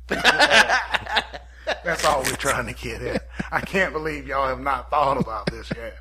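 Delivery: lightly voiced, laughing inventor with trembling voice; a mock-grand genius announcing his discovery through laughter; Terrence Howard impression. Mocking Terrence Howard to podcast friends, laughing impression. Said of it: "Somebody tremble in your voice, Terrence".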